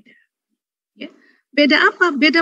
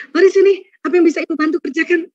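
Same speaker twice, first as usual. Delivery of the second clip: quick, higher eager offer; helpful mother; 6 semitones higher, faster than usual. Retold or imitated. Mother offering daughter help with cleaning, quick and eager. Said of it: "Komen ibu kandung gimana?".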